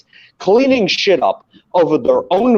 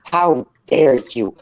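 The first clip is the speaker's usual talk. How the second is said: mocking Greta quote; 3 semitones lower, slower than usual. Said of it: "you wanna tell me".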